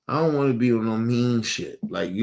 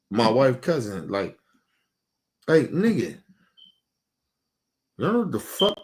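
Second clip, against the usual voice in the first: pitched up and fired at the family; heated rant; 4 semitones higher than usual. Real, not acted. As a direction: let the anger climb as you call them out. Ranting at family about respect.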